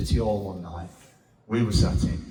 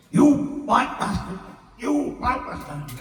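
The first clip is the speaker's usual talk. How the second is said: high mock yell at a woman; retold shout; 11 semitones higher than usual. Heckler behind them at Hillsborough, imitated in a high mock yell. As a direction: ham up the bloke's racist yelling, pitched high. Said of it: "And he's shouting".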